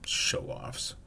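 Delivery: whispered under breath; muttered. A narrator's reading. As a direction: mutter it, barely voiced. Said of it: "Ron muttered".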